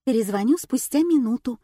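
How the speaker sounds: plain reading voice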